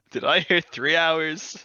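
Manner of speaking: slow, loud auctioneer call. Acted. Auctioneer bidding joke.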